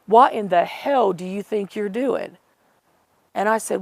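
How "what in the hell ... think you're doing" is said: imitating a rude, indignant challenge; mildly heated retold telling-off, each word pressed; rude retort. Caller berating her for coming to the house, mock-rude. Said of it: "and he was so rude".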